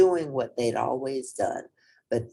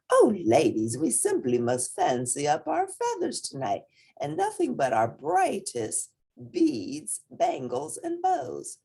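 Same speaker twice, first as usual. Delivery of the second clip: a higher, preening hen voice rising toward the end; vain hen; 10 semitones higher than usual. A narrator's reading. A vain hen urging her friends to dress up, gushing and rising. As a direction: gush like a vain hen planning her outfit.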